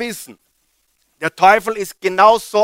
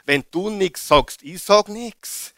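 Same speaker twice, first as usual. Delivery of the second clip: tempter's whisper; 2 semitones lower than usual. Retold or imitated. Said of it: "Andauernd sagt er".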